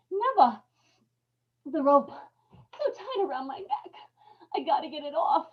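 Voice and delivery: desperate cry for Ella; panicked choking plea. Acted. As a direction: struggle for air and help. Choking man calls to Ella.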